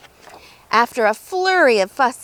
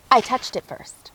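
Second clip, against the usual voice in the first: whispering; 4 dB quieter than usual. Acted. Goose claims egg, unvoiced.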